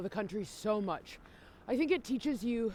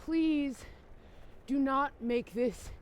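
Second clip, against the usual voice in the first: begging; slower than usual. Real, not acted. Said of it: "I am begging you".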